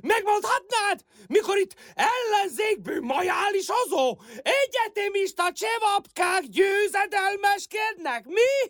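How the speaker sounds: indignant, worked-up retort; agitated protest. Acted. Woman told to calm down by her neighbour, agitated protest. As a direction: refuse to calm down, voice jumping up. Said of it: "Nyugodjon már meg!".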